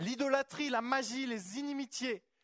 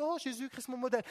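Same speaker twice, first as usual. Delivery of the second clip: mock pious sigh; faster than usual. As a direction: parody the sentimental believer.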